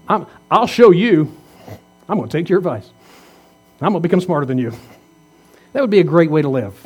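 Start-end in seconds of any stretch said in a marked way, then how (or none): 0.1-4.7 defiant vow. Pretend. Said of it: "but say".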